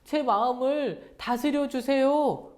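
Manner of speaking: put-on high-pitched, pleading child-like prayer; honest prayer, demonstrated. Shown as a demonstration. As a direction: confess your jealousy to God, listing who upsets you. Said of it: "하나님께 솔직하게 말씀드리는 거예요".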